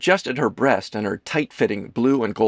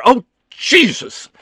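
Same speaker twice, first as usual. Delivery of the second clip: high, loud, drawn-out exclamation; exasperated outburst; 13 semitones higher, 8 dB louder, slower than usual. Acted. Ethan exasperated with himself, crying out. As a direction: cry out at your own blunder.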